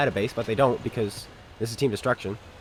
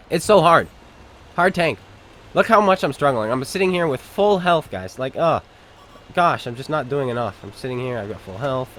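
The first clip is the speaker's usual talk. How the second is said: sarcastic. Acted. Sarcasm while at full health.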